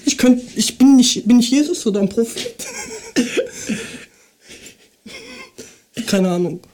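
verpeilter Kiffer, leise und tief. Acted. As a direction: spiel einen bekifften Typen. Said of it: "dann mach ich den, den Kiffer". (Kiffer-Stimme)

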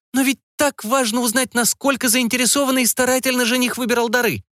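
prying mother digging for details, pitched high. A narrator's reading. Mother questioning her daughter about the groom, high curious voice.

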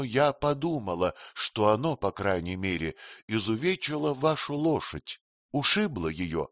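lightly voiced queen, teasing and frank; Sitabhai, lightly voiced. (слегка изображённая царица, кокетливо)

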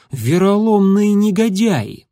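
a slow, furious exclamation; indignant outburst. Acted. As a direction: spit out the insult in outrage. Furious inner outburst at traitors.

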